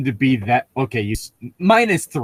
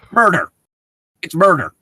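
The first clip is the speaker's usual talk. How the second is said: dramatic reveal; 5 semitones higher, 6 dB louder than usual. Acted.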